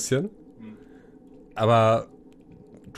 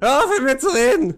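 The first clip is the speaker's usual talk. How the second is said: higher, raised-voice protest; exasperated prisoner; 6 dB louder than usual. Acted. Prisoner fed up with cellmate's comments, exasperated shout. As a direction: cut the cellmate off, acted anger.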